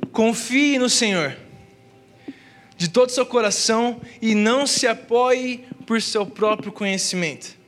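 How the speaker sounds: slow, emphatic Bible verse reading; measured, declaimed scripture with pauses. Real, not acted. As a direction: read the verse out slowly, weighting each phrase. Reads the Bible verse aloud.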